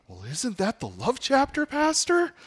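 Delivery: hammed-up know-it-all churchgoer asking the pastor, high-pitched; mock eager congregant. Imagined congregant asks pastor.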